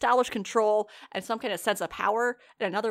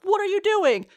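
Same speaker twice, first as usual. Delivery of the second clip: high, loud retold "what are you thinking" outcry; scolding outcry; 10 semitones higher, 5 dB louder than usual. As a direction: exclaim it like an appalled onlooker. Other heroes scold the boy.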